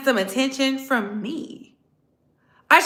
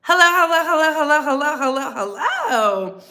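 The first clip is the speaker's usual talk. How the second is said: sing-song hellos; 4 semitones higher than usual. Real, not acted. Greeting chat repeatedly.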